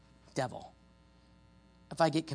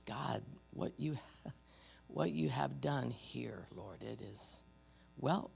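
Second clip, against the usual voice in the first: closing prayer; 2 semitones lower, 6 dB quieter than usual. Real, not acted. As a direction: pray quietly and sincerely, trailing softer. Let's pray.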